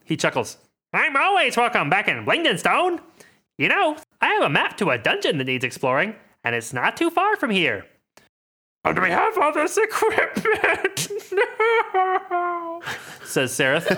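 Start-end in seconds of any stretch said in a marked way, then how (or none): 0.9-7.8 lightly higher gnome voice; cheerful gnome voice; Jimjar voice. Acted. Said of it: "these voices are really taking a toll". 8.8-12.8 high, slow put-on voice; Sereth voice. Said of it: "these voices are really taking a toll".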